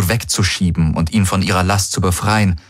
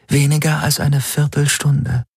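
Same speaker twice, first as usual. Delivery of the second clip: higher, even voice of the ship's AI; computer voice; 8 semitones higher than usual. Acted. Helix the AI answering Garland, higher even voice. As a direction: report the time like a calm machine.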